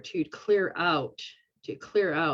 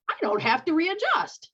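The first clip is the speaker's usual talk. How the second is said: high surprised realization; 12 semitones higher than usual. Retold or imitated.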